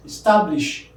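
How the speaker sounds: establish with the middle syllable stressed: es-TAB-lish; teacher modelling es-TAB-lish. Shown as a demonstration. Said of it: "Establish the middle".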